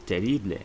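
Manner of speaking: Spanish terrible with final e. Shown as a demonstration. Teacher models es terrible loudly. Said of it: "is pronounced as es".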